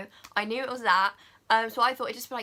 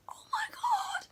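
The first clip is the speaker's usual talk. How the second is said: breathless whispered oh my God; awed whisper; 5 dB quieter, slower than usual. Retold or imitated. Vlogger recalling her favourite song, whispered awe. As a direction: hush it out, stunned.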